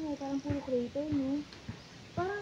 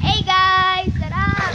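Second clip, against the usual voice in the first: excited; 5 semitones higher, 17 dB louder, much slower than usual. Real, not acted. Vlog intro shouted in water.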